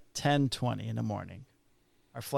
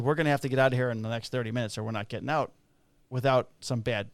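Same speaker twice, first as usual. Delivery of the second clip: urgent; faster than usual. Retold or imitated. Urgent warning to wife.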